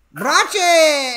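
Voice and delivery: loud, high, badly faked Spanish accent; botched Spanish accent. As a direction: shout it out in a terrible Spanish accent. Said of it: "I can't do the accent there".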